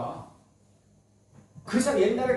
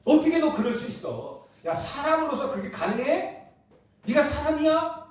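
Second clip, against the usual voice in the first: much higher, incredulous scolding; outraged accusation; 8 semitones higher than usual. Retold or imitated. Ordinary man confronting Peter, high mock outrage. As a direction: demand how he could do it. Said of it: "그러지 않겠어요?".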